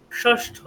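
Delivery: ষষ্ঠ with curled-tongue sh and hard ṭh; correct retroflex sh. Shown as a demonstration. Teacher repeating the right form for students, retroflex sh. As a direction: retroflex ষষ্ঠ, set out on its own. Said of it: "ষষ্ঠ নয়".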